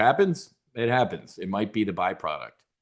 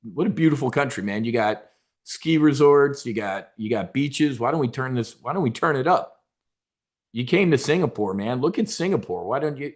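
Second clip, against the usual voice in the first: mock Trump sales pitch; 3 semitones higher than usual. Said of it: "It's like".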